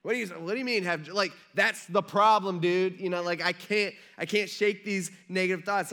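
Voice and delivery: acted exasperation. Preacher voices a struggling listener objecting, acted exasperation. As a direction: push back, tripping over the words.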